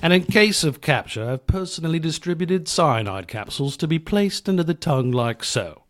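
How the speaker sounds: lightly acted mission briefing voice; brief the troops, lightly in role; movie military briefing. Roadie briefing crew on machine guns, lightly acted military instructor.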